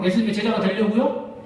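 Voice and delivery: lightly sarcastic question; sarcastic retort. Retold or imitated. Healed man mocking the Pharisees, lightly sarcastic. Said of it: "비아냥거린 거죠".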